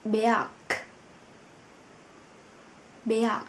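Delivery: berg with the final g turned into a strong k; final consonant demo. Shown as a demonstration. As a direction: say berg ending on a pushed k. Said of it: "chúng ta có từ berg". (phát âm berg, g cuối đọc thành k)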